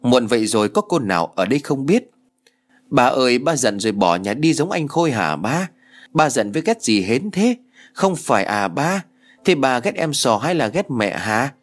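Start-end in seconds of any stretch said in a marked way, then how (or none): 2.9-11.5 girl on the phone asking her father, a hint of a child voice; lightly voiced pleading girl. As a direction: ask dad why he left, gently childish. Hến asks dad on phone.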